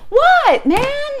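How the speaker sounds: high, loud mock yell; retold annoyed shout. Shouting back at the honking car, mock yell. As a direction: call back sharply at the honker. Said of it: "she's like to honking car".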